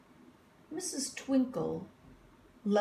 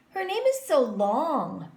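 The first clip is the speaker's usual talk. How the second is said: put-on teasing girl; 5 semitones higher, 6 dB louder than usual. A narrator's reading. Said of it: "said Jo".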